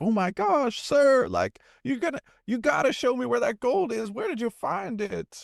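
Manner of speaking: put-on high-pitched awestruck young clerk; hammed-up astonished pleading; mock surprise. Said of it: "I'd be surprised".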